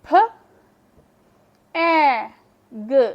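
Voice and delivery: फ, ए, ग sounded out one letter at a time; sounding out letters. Shown as a demonstration. Teacher to students, sounding out फ ए ग. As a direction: spell it aloud slowly: फ, ए, ग. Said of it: "अब देखें".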